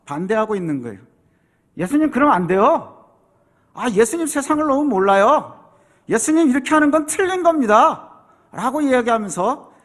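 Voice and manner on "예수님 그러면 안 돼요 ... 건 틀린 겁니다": rebuking protest. Acted. Peter rebuking Jesus.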